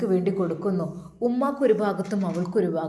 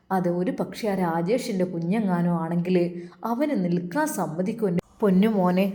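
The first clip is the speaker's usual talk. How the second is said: put-on a slightly lower, gentle old mother; lightly voiced mother; 3 semitones lower than usual. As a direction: speak as a caring mother to her son, voice just a little lower. Narrator voices the mother-in-law. (അല്പം താഴ്ന്ന സ്വരത്തിൽ സ്നേഹമുള്ള ഉമ്മ)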